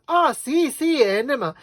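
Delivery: high, loud burst of realization; delighted recognition. Retold or imitated. Drugstore lady finally understanding the customer, delighted recognition. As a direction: exclaim it as the word suddenly clicks.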